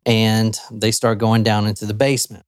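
ordinary talk, nothing marked

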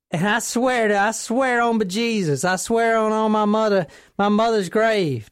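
put-on folksy country accent, swearing it's true. Tipster phoning Crime Stoppers about a farmer, put-on country accent.

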